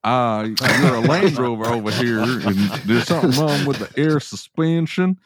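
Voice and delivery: hint of a British tech talking to a customer; mock British accent. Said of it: "You think Lucas said".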